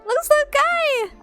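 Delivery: very high, drawn-out cooing squeal; delighted squeal. Real, not acted. Player first seeing the baby dinosaur, delighted squeal. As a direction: squeal slowly over something adorable.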